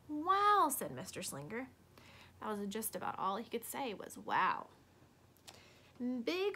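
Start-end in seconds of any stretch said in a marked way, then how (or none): 0.1-0.7 loud, high delighted wow; teacher bowled over by the pictures; impressed wow. Acted. 4.2-4.7 low stunned wow. Acted. Teacher stunned quietly.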